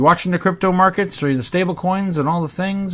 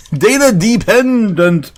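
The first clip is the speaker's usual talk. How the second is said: put-on voice; 7 semitones higher, 6 dB louder, slower than usual. Slow put-on repeat of phrase.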